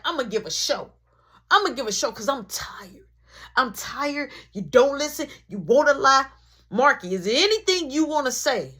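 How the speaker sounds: scolding mom. Retold or imitated.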